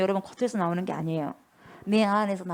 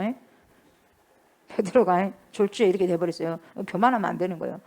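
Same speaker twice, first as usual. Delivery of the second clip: ordinary delivery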